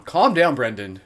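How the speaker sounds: mock self-soothing, then firmer; self-directed calming after laughing; talking to himself. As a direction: tell yourself to settle down, playfully. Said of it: "As if I'm, like, talking to myself".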